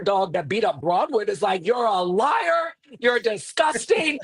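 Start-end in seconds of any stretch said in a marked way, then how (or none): 1.7-4.2 slow, higher mock shout; drawn-out imitated yell; retold scream. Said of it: "just starts screaming".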